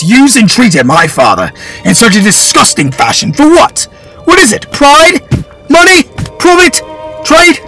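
high, loud furious outburst; boy raging at the lord; furious tirade. Acted. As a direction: tear into the lord.

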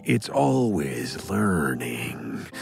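mock AI voice, low and slow; robot voice. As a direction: drone it like a computer. Ad read about learning AI.

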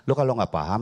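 ordinary delivery

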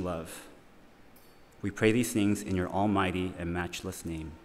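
prayerful, measured, reverent. Acted. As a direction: lead the room in prayer. Leads an opening prayer.

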